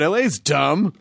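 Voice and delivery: San Francisco accent. Shown as a demonstration. Host demonstrates San Francisco's rivalry with LA, mock San Francisco accent. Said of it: "it sounds more like this".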